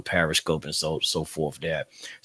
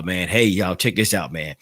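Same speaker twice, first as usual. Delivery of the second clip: normal talking voice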